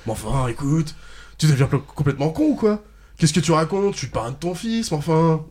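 deliberately bad angry yelling. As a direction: overplay the outrage badly. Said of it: "Je vais encore plus violent".

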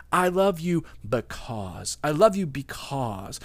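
slow and deliberate "I love you because"; slow, meant. Shown as a demonstration. Pastor teaching couples the phrase, slow and sincere. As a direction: linger on every word. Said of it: "give us a word".

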